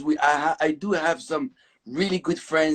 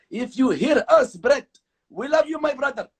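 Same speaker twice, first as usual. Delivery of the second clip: put-on thick Arabic accent, higher; 6 semitones higher than usual. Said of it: "hear us with a very thick Arabic accent".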